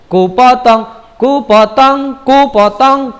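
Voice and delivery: half-sung "ku potong", leaning on "ku"; strong "ku". Shown as a demonstration. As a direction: stress on "ku" in "ku potong". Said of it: "kunya kuat".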